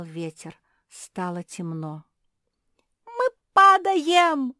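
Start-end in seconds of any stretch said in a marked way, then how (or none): 3.1-4.5 slow, very high, loud scream; terrified shrieking. A narrator's reading. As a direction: scream as the boat tips over. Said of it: "завизжала Жози с Капитолиной".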